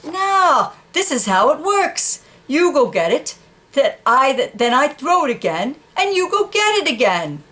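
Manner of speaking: high, insistent explaining; excited dog. Acted. Dog explaining fetch to the horse, high and insistent. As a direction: spell out the rules of fetch.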